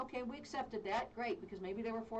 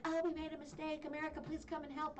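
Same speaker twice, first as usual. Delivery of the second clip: mock pleading Italians; 7 semitones higher than usual. Mocking Italians begging America.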